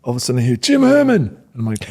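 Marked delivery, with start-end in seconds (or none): 0.6-1.2 high, loud shout of a name across the sideline; coach calling out. Retold or imitated. Head coach calling a freshman's name across the sideline, loud shout. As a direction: yell the player's name to get him over.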